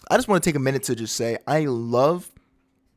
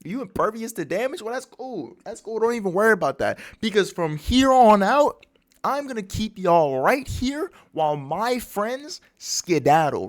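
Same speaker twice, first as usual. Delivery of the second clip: lightly voiced cocky challenge, pitched up; Luffy; 5 semitones higher than usual. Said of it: "My boy Luffy's like".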